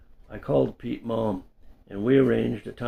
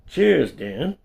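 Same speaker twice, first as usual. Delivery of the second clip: higher and louder, gloating toast; triumphant; 6 semitones higher, 6 dB louder than usual. Retold or imitated. Narrator toasting Dan after winning, smug triumphant cheer. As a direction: savor the little win. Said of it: "enjoying my little victory".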